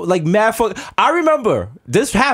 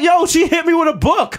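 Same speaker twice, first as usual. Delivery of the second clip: high, hollered protest; pitched-up indignant yell; retold child's protest; 12 semitones higher than usual. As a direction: replay a kid's outraged complaint. Acting child's protest to mother.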